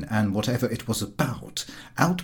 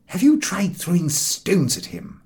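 Harris asking; 5 semitones higher than usual. Acted. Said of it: "asked Harris".

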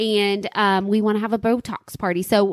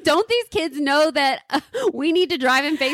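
sarcastic; 5 semitones higher than usual. Pretend. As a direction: play up the fake outrage. Joking mock outrage.

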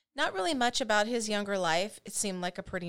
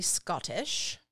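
badly faked Scottish accent on one word; amateur Scottish lilt. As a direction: attempt a Scottish accent, poorly. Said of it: "that was a terrible Scottish accent".

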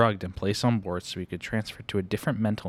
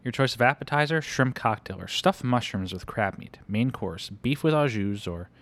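deep theatrical voice; 2 semitones higher than usual. Retold or imitated. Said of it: "very deep theatrical voice".

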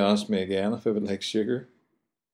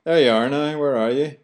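high, lively Belfast greeting; Belfast chat; 5 semitones higher than usual. Shown as a demonstration. Host demoing empty Belfast greeting to listeners, high and friendly. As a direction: sing it out like a Belfast local. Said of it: "For example".

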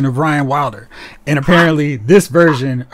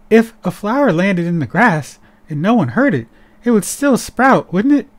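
put-on lightly higher, childlike sing-song question; a hint of a dreamy child, pitch rising higher; mock childlike voice; 5 semitones higher than usual. Vlogger imitating the childlike new character's talk. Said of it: "that's how she talks".

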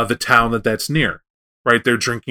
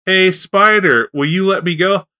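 slow, higher little plea, louder at first; pleading worm; 5 semitones higher, 3 dB louder, slower than usual. Acted. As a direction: sheepishly ask to be released, lightly acted. Stuck Worm pleads with Spider.

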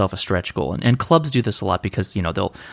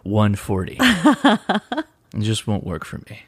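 mocking fitness buff. Mocking healthy hams.

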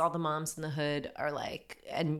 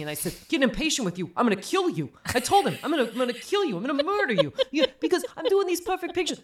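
high and loud mock griping, rushing along; chatty mammogram tech; 4 semitones higher, 5 dB louder than usual. Imitating the tech complaining about the particular doctor, high and loud. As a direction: gossip and gripe about the doctor without pausing. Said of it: "she's like".

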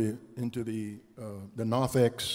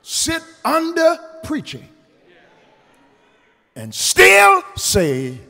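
slow, deliberate pulpit delivery; measured preaching; 11 semitones higher, 10 dB louder, slower than usual. Real, not acted. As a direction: hold back, then swell on a key word. Preaches to congregation.

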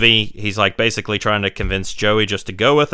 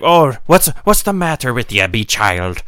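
mock Irish accent. Priest asking a runaway what's wrong, mock Irish accent. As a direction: put on a lilting Irish priest. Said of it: "I'm taking out my Irish accent".

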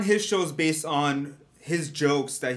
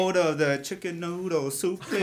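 lightly put-on takeout customer, higher pitch; laughing mock order, a bit higher; acted-out food order; 5 semitones higher than usual. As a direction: imitate placing an order, amused. Acting out her accented takeout order.

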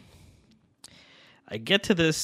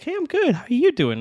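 put-on high-pitched, louder girl's greeting; imitated friendly girl; 13 semitones higher, 7 dB louder than usual. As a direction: chirp back a greeting, mimicking her. Voicing the girl's friendly reply.

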